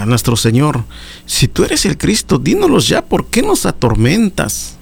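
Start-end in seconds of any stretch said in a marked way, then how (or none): 1.3-4.8 higher, pressing mock challenge; challenging Pharisees. Pharisees demanding Jesus prove he is the Christ, pressing high challenge. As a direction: voice the scribes demanding an answer.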